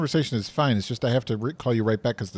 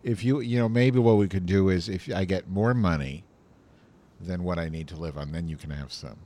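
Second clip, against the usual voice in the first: hollow, echoey phone line; echoing bathroom. Real, not acted. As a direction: voice like in a toilet bowl. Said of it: "you sound like you're in a toilet bowl".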